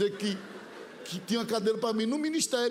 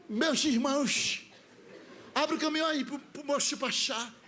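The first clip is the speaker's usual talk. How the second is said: part the crowd with a pompous call; preacher's command; 4 semitones higher than usual. Retold or imitated. Preacher commanding crowd open path. (pregador pedindo passagem, lento e solene)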